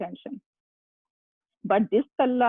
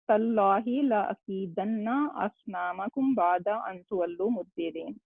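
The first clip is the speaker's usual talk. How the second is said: reciting a Quran verse. Shown as a demonstration. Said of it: "Then we have".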